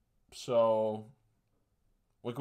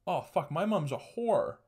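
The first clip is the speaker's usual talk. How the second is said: dog's dawning realization, pitched up; slow, higher voice as the truth sinks in; 6 semitones higher than usual. Acted. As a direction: act out a dog slowly catching on. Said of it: "the dog slowly realizing".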